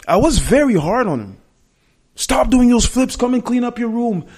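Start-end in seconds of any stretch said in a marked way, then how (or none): 2.1-4.3 stern dad. Retold or imitated. Hard dad ordering son around.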